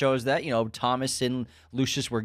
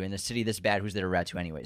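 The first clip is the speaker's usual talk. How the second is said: lower, softer Gordon quote; quoted Gordon line; 7 semitones lower, 7 dB quieter, faster than usual. Retold or imitated. Gordon reassuring his corrupt partner, low and soft. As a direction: say it lower and quieter, confiding. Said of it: "he's like".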